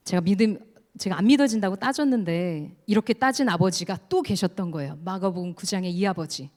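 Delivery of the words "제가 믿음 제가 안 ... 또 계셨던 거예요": ordinary delivery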